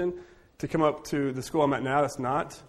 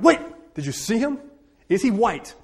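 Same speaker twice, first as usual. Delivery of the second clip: mock curiosity; 7 semitones higher than usual. Teacher teasing, mock curiosity.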